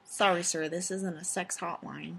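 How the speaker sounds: sexy nurse voice. Pretend. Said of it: "Is that the sexy nurse voice?".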